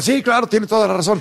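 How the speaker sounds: mock agreement. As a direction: agree eagerly, imitating partisan believers. Mimics eager agreement with US verdict.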